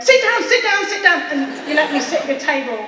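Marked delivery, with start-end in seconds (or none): 0.0-1.2 imitating a warm invite. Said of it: "And you went".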